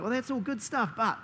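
high, then softening and slowing to gentle; God's gentle voice. Pretend. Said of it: "and God's like".

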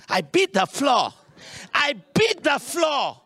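hammed-up parent beating the floor; imitating parent. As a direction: act out a parent hitting the floor for the child. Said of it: "the parent will do this".

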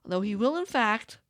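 calm storybook reading; story narration. Acted. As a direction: read it like a folk tale. Reads hummingbird folk tale aloud.

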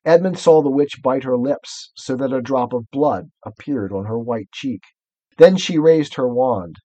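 measured, suspenseful storybook reading; story narration. A narrator's reading. Reader telling of the witch's wand, story narration. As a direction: read it out, building towards danger.

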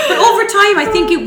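laughing through the words. Real, not acted. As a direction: still laughing as she starts. Laughs at novel joke.

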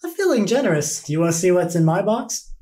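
lilting offer, starting high; hint of a coy tempter; lightly voiced merchant. Merchant tempting visitors with her box, lightly voiced. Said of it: "she's like".

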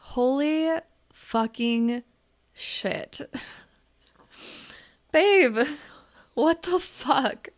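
stunned giggle breaking into the words; disbelieving laugh. Real, not acted. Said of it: "I'm laughing out of disbelief".

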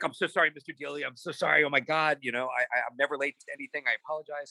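mildly panicked apologizing, acted out; stumbling over a mock apology; retold frantic apology.

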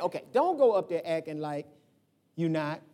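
lightly voiced mama warning her boy; a hint of mama. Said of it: "She used to say that all the time".

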